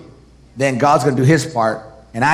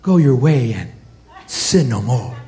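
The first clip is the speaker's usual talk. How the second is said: lightly acted serene forgiveness; mock-serene movie Savior; gentle movie Jesus; 3 semitones lower than usual. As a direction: pronounce it softly, with a pause midway. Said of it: "kind and, and soft and gentle".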